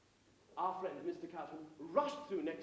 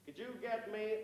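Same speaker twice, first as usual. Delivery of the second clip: lightly attempted American accent; bad American accent; 2 semitones higher than usual. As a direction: try an American accent, not very well. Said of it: "that's my American accent, I'm afraid".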